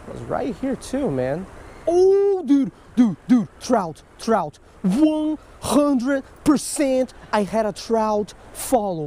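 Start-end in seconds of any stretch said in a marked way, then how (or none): 1.9-9.1 excited shout. Real, not acted. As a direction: yell it as the trout appears. Trout follows his lure.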